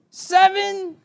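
high, loud, drawn-out count; kid's shouted count. Retold or imitated. Little brother shouts the next count from the back seat. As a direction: yell the number like a sulking child. Angry kid counting restaurants.

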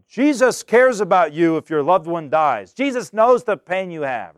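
a loud, mock-preachy push in a delicate moment; a mock-loud comfort about a loved one dying; shouting in a delicate moment. Shown as a demonstration. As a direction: overdo the comfort, too loud. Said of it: "you're gonna be like".

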